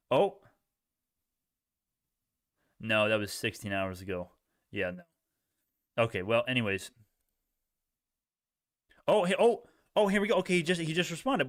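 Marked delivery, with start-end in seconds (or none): none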